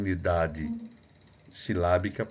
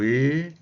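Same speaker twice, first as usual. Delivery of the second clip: "E" held loud with rising pitch; "E", long and strong; stressed vowel peak; 6 semitones higher, 8 dB louder than usual. Shown as a demonstration. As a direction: swell on "E" as the syllable's peak. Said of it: "é o núcleo".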